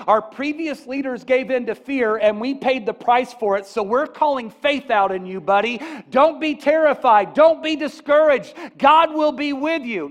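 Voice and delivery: loud, high rallying cry, building; rousing charge. Acted. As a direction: call courage out of him, full voice. Elders urging Joshua with courage.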